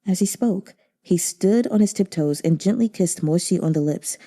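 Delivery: reading a novel aloud, low and even; story narration. Acted. Reader voicing the novel's farewell scene, hushed narration. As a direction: narrate the romance gently.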